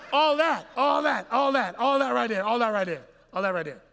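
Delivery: loud shout fading down to normal; emphatic repetition. Real, not acted. Preacher hammering a point, loud then fading. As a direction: start shouting, let it fall away.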